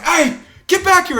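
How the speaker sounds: high, loud, drawn-out yell; retold shouted order. Commissioner ordering runaway fighter back, shouting. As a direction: imitate an official calling someone back.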